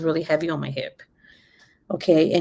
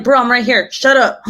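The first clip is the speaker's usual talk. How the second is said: high, laughing mock snap; telling him off through laughter; 6 semitones higher, 4 dB louder than usual. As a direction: mom laughing at her panicking son. Answering her crying son, laughing.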